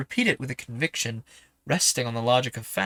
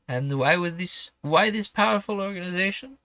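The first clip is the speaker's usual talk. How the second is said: questioning, in a badly faked French accent; doubtful whaler with an amateur French accent; horrible French accent; 5 semitones higher than usual. Harpooner challenges the professor's reasoning, bad French accent. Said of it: "doing my horrible French accent".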